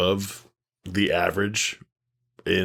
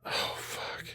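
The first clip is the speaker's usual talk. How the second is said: muttered under the breath; whispered oh fuck; 11 dB quieter than usual. Real, not acted. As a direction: breathe it out, stumped. Can't remember plot.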